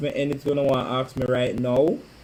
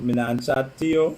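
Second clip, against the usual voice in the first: Bajan accent. Shown as a demonstration. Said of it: "You hear the Bajan accent?".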